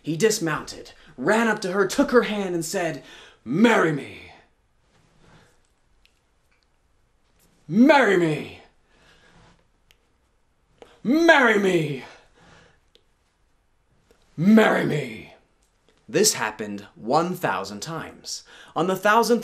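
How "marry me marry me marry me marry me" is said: pleading proposal. Acted. Prince begs a thousand times.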